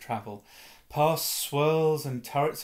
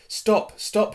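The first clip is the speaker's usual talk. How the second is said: repeated yells, much higher and louder; yelled; 10 semitones higher, 7 dB louder than usual. Acted. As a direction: shout at the falling car in panic. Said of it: "he yelled".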